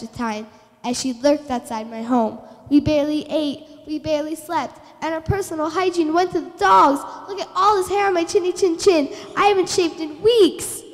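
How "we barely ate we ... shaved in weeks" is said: melodramatic. Acted. Pig dramatically recounts suffering.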